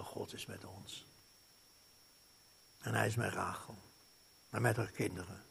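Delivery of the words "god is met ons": hushed near-whisper. Acted. Hushed intimate words.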